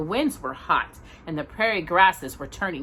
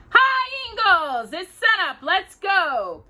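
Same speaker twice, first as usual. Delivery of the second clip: high, loud morning call; shout; 12 semitones higher, 4 dB louder, slower than usual. A narrator's reading. Mister Scott shouts to Pa at sunup, high and loud. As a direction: call out across the yard. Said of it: "They heard him shout".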